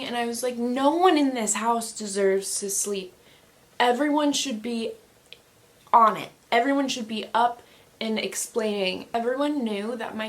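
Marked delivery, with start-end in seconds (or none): 0.6-9.1 indignant, louder re-enacted outburst; mild mock yell; retold yelling. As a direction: scold the household, punching words loudly. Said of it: "So I'm, like, yelling".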